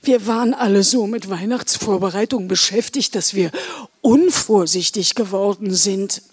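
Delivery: lightly voiced old Santa; worried Santa. Santa admits to elves they grew careless, rueful.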